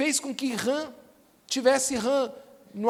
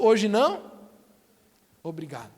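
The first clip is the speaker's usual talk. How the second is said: lightly acted brush-off, dropping low at the end; dismissive refusal; 4 semitones lower than usual. Man declining what God offers, lightly dismissive. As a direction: turn it down, voice sinking on the thanks.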